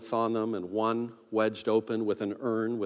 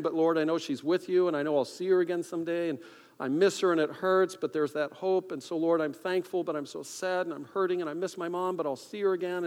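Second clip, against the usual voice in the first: higher-pitched, earnest imitated prayer; retold tearful prayer; 5 semitones higher than usual. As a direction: pray as a grieving friend, without sobbing. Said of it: "he's praying".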